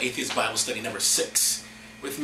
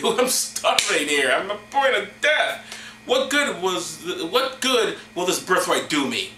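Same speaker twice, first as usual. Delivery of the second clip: melodramatic starving man; 4 semitones higher than usual. Acted. Starving Isaiah at the point of death, hammed-up complaint. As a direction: mock-desperate complaint, pitch swooping up.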